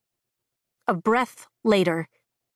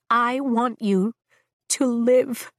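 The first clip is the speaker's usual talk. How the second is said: voice breaking; 2 semitones higher, slower than usual. Acted. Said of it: "My voice breaks".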